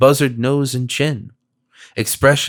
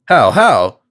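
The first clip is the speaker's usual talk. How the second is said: bewildered; 7 dB louder than usual. A narrator's reading. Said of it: "Still more bewildered".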